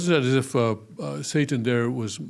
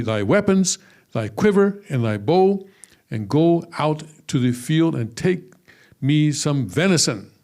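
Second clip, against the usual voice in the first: lightly raised voice reading King James verses aloud; scripture reading. Acted. Teacher reading Isaac's request to his class, mildly heightened scripture reading. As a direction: read the old blessing out to the class with gentle emphasis.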